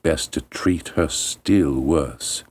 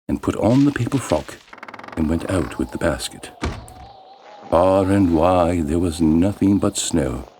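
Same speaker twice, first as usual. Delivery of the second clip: plain reading voice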